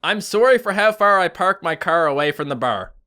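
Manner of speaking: showing off a Canadian accent on request. Shown as a demonstration. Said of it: "I just like your accent".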